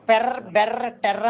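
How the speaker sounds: syllables sounded out as examples; pronunciation demo. Shown as a demonstration. Teacher telling students how to pronounce the strokes, pronunciation demo. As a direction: say పెర్, బెర్ర, టెర్ర with the vowel before the R. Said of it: "pronounce చేసేట".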